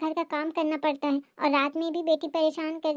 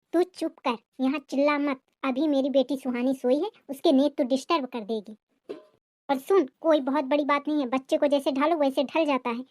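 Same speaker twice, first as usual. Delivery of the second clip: lightly lowered voice of a complaining mother-in-law; scolding mother-in-law. Acted. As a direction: nag the daughter-in-law with a touch of bitterness. Mother-in-law hushing, lecturing.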